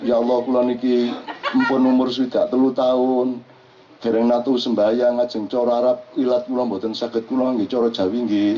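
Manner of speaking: sedikit meniru kakek Jawa yang polos sambil tertawa; doa orang tua Jawa. Retold or imitated. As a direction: meniru teman tua berdoa dalam bahasa Jawa. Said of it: "saya punya teman kok". (menirukan ringan kakek berdoa dalam bahasa Jawa)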